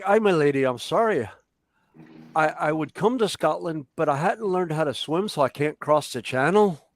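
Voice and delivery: lightly put-on accent, near northeast Scottish; put-on festival accent. Shown as a demonstration. Festival Scotsman apologizing to an old lady, in a put-on accent. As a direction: apologize in a slightly Canadian-sounding Scottish accent. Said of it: "I'll do it in the accent".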